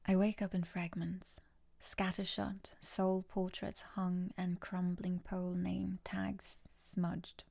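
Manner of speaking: hushed, breathy reading voice; dramatic reading. Pretend. Streamer reading a viewer's poem aloud, hushed and dramatic. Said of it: "I'll use my best audible voice for this".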